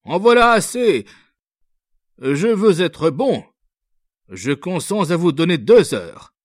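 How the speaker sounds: high, loud impatient officer; outburst. A narrator's reading. Officer to the young girl, losing patience, loud. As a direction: shout her down, then set the deadline. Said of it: "Il s'écria".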